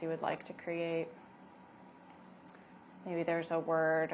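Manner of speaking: calm, unhurried yoga teacher voice; guided meditation. Acted. Yoga teacher settling expectant mothers into breath, guided meditation. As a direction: guide them gently inward, leaving long pauses.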